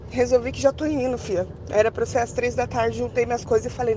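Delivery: usual speaking voice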